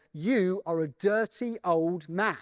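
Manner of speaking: slow, deliberate, mildly sinister retelling. Retold or imitated. Storyteller quoting Steve Jones turning on the TV host, mildly sinister. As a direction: lightly imitate a sinister threat, drawing it out slowly. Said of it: "in quite a sinister sounding voice".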